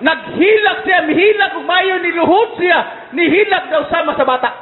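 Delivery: high-pitched retelling of weeping; imitated wailing. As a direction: raise the pitch as if mimicking a wail. Interpreter acts out man weeping.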